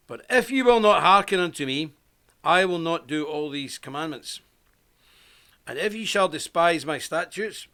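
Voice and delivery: measured, formal Bible reading; scripture reading. A narrator's reading. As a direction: read it out as solemn scripture, with weighted phrases. Reads Bible passage aloud.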